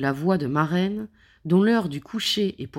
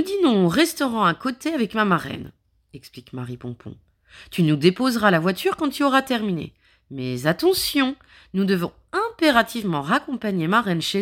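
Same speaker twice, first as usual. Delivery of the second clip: brisk woman voice; 3 semitones higher, faster than usual. Acted. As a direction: rattle off the plan quickly. Marie Pompon explains.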